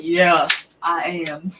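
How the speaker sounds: put-on slow, loud Southern accent; imitated Southern accent, emphatic and drawn out. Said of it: "a Southern accent".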